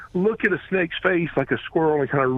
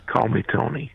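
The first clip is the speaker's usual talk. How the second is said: lightly imitating a calm, lower-voiced actor; 4 semitones lower than usual. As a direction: say it evenly, unruffled. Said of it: "just so calmly and says".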